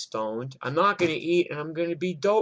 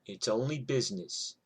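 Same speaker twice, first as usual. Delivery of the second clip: calm quiet; 5 dB quieter than usual. Retold or imitated. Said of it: "And I'm like".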